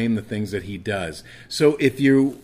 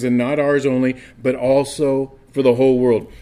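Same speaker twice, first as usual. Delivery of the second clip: scripture reading; 2 semitones higher, 3 dB louder than usual. Acted. Reads scripture aloud to congregation.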